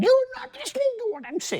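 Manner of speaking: mock shrill, high-pitched child's shout. Retelling a seven-year-old shouting at bedtime: imitating Sifat shouting. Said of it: "she shouts at me".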